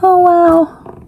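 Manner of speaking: high mock posh show-off voice; lightly mocking boastful rich kid; imitating a show-off. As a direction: put on a smug bragging voice.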